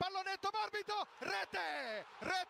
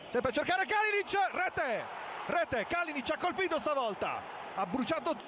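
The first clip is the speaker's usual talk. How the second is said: breathless italian goal commentary; 4 dB louder than usual. Real, not acted.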